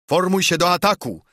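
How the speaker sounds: high-pitched captain's battle order; called-out command. A narrator's reading. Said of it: "zawołał". (wysoko zawołany rozkaz do szturmu)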